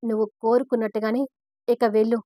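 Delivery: clipped furious parting words; angry. Acted. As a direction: send her away in anger. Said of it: "అని అంటాడు కోపంగా".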